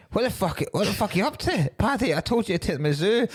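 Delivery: high-pitched mock disbelief; incredulous challenge. Irish guy confronts Paddy about the monkeys, high-pitched mock disbelief.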